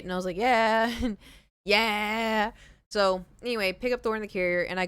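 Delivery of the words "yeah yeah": laughing yeah. Retold or imitated. Gloating to the nurse.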